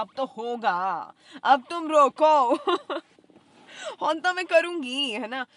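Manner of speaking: loud, high and slow, like a storm breaking; mock furious threat. Playing her own raging self at the landlady, loud. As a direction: dare them to stop her.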